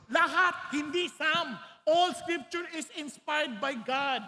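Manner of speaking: all drawn out slowly and loud; stress on all. Real, not acted. Preacher insisting all scripture is inspired, stressing all slowly. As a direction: lean hard and slow on all.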